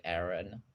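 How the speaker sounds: Aaron as familiar AIR-un; English pronunciation. Shown as a demonstration. Explaining English tradition of names, familiar pronunciation. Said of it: "there is an English tradition".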